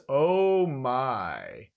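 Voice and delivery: low, drawn-out villain purr; a loose attempt at Zarbon. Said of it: "that's not the Zarbon voice, but I'm going with it".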